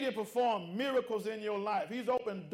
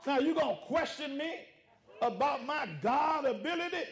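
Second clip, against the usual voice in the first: a touch raised, indignant God rebuking doubt; God scolding the doubter, mildly raised; voicing God. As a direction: speak as God, hurt that they doubt.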